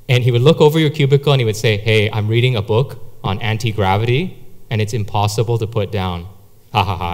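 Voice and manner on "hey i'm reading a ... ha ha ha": low, deadpan joke with mirthless laugh; deadpan one-liner. Retold or imitated. Friend over the cubicle wall, deadpan one-liner. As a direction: imitate the office joker, pitched down. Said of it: "just come up and deliver, like, a one-liner".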